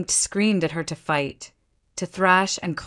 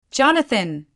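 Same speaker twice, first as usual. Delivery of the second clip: high, louder desperate scream; screaming a name; 6 semitones higher, 4 dB louder than usual. A narrator's reading. Abandoned wife screams after her husband, high and desperate. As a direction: scream after him as he leaves. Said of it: "she screamed".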